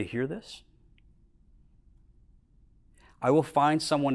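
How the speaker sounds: retold calm, unhurried reassurance with long pauses; calmest voice. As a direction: reassure a distressed employee, steady and gentle. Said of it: "I found my calmest voice".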